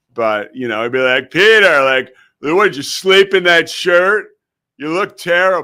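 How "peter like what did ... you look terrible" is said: loud, raised, needling teasing tone. Retelling how a mentor teased freshmen: impression of a ball-busting mentor. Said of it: "I could do his impression".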